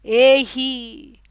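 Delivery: drawn-out, affectionate calling; imitating a loving summons. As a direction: call a loved one, stretching the word. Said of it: "calls her with utmost love".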